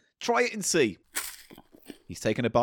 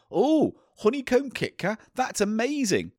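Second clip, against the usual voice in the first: excited; 8 semitones higher, slower than usual. Retold or imitated. Retold excited thought.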